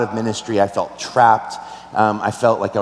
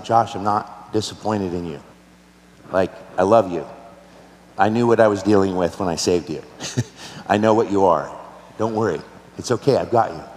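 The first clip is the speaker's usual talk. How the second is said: gently voiced, lower reassurance; God; 4 semitones lower than usual. God reassures a weeping pastor, still soft voice. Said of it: "the still soft voice of God saying".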